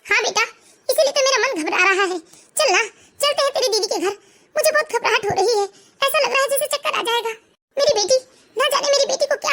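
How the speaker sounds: tearful mother. Acted. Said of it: "क्यों रो रही हैं आप सुबह सुबह".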